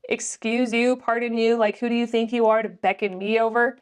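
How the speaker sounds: mildly affronted, hackles up; indignant. Acted. Heroine bristling at a stranger who beckoned her, indignant. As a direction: take offense, lightly acted out. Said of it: "her little hackles go up".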